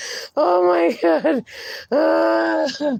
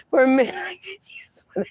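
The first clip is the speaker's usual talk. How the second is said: crying laughter; 5 semitones higher, much faster than usual. Real, not acted. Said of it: "laughing-crying".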